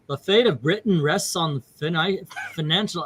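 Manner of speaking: badly attempted English accent. Shown as a demonstration. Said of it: "let's see, English accent".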